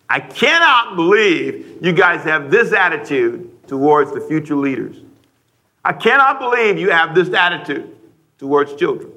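mildly indignant rebuke, key words stressed; understated anger, scolding the grown-ups. Acted. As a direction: act out a measured indignant reproach. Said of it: "he was indignant, angry".

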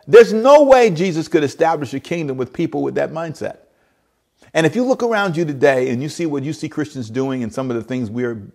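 breathless after preaching hard; out of breath. Real, not acted. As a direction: gasp through the words, winded. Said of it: "I'm almost out of breath".

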